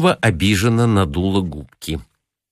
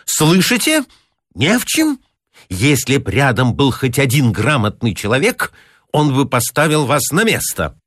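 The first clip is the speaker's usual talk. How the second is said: much higher, stung and indignant; high offended tenor; 6 semitones higher than usual. A narrator's reading. Hurt pedant lecturing the clerk, higher offended tenor. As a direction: voice jumps up in wounded pride. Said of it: "высоким тенором, который обычно появлялся у него в минуты обид".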